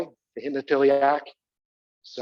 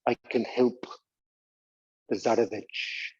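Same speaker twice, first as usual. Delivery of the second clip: loom over them as the mad monk; Rasputin; 5 semitones lower than usual. Acted. Teacher playing Rasputin to the class, slow ominous monk. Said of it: "Rasputin was a very weird Russian monk".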